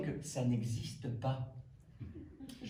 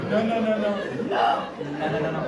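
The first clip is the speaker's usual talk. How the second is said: emphatic refusal; 5 semitones higher, 9 dB louder than usual. Real, not acted. Reacting to Liège accent.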